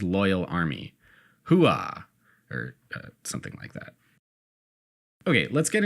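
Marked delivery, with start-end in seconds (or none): 1.5-2.0 hearty army cheer; loud gung-ho soldier. Acted. 2.5-3.9 sheepish mumble. Real, not acted. Sheepish aside after cheer.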